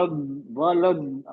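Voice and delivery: "ولد" closed firmly on the d; sound before stretching. Shown as a demonstration. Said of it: "پہلے آواز، آواز".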